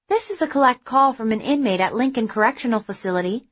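automated phone recording voice; robot voice. Acted. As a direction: read it like a robotic operator. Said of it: "began the familiar robotic voice".

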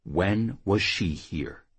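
slow, deliberate menacing question. Acted. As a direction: space the words out, voice held down. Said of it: "lowering his voice".

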